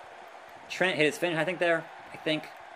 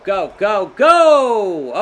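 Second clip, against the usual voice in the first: urgent shout; 8 dB louder, much slower than usual. Real, not acted. Urging his character on.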